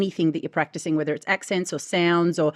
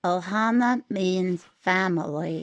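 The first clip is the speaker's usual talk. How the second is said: character voice attempt; much slower than usual. Shown as a demonstration. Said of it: "That's much closer".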